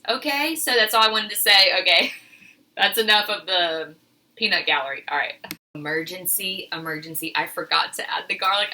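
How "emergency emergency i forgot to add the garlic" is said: quick flustered admission; fast nervous confession; rushed realisation. Real, not acted. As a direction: blurt it out fast, caught off guard. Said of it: "I'm so nervous about filming this video".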